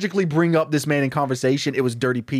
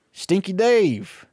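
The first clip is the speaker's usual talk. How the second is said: slow, stretched, higher-pitched "Stinky Dave"; drawn-out villain greeting; 5 semitones higher, much slower than usual. Acted. Stinky Pete greeting the sheriff, smug and drawn out. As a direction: savor the name like a smug boss.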